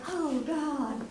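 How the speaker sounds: soft, sinking oh God; murmured in dread; dismayed groan. Retold or imitated. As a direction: dread as it dawns. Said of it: "And I was like".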